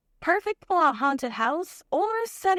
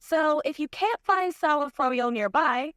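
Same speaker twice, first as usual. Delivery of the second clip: put-on bubbly Valley Girl. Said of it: "get back to the bubbly vibes".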